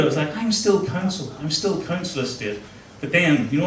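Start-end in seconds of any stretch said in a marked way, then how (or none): 0.4-1.3 self-reassuring. Retold or imitated. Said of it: "I was trying to deal with it". 1.4-2.6 softer, deflated self-reassurance; convincing himself quietly. Retold or imitated. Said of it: "I was trying to deal with it".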